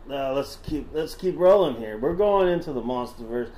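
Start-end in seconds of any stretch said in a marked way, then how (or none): 2.0-3.5 put-on Southern accent. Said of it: "Should I stop doing the voice?".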